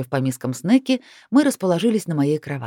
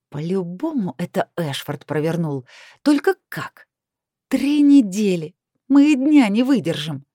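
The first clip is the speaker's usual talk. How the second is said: growled outburst; 2 semitones higher, 4 dB louder than usual. A narrator's reading. Heroine grabbing her phone to call, growling angrily. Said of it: "прорычала я".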